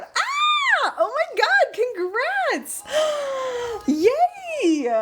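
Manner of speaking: high scream of delight, then gasping cheer; joyful freak-out. Real, not acted. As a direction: squeal congratulations to a newlywed friend. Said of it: "freak out".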